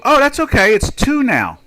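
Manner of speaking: high, put-on breezy brush-off; imitating a dismissive store clerk; mock reassurance. Voices store brushing off customer.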